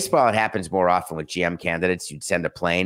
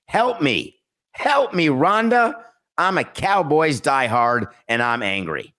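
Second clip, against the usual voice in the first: much higher, pleading mock fan voice; desperate fan; 6 semitones higher, slower than usual. Reading a Cowboys fan's plea to David, much higher and pleading. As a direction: ham up a frantic Cowboys diehard begging for help.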